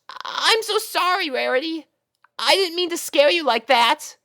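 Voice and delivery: put-on high, loud boyish alarm; startled rescue. Spike catching Rarity then apologising, high loud alarmed voice. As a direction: dive in and catch her.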